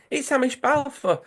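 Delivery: high, excited cry of recognition. Retold or imitated. Players crying out on recognising the star in the bath. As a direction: blurt out the name as if amazed.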